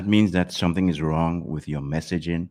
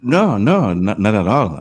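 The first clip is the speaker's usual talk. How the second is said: emphatic protest; 4 semitones higher, 6 dB louder than usual. Real, not acted. Objecting to caller's question.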